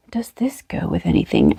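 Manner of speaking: whispered question to herself; whispering. Real, not acted. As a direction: breathe it as a secret. Musing to herself over yarn.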